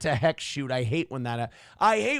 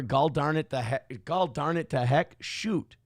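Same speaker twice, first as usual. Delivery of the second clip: Fargo accent; 2 semitones lower than usual. Shown as a demonstration. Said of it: "Nobody knows where".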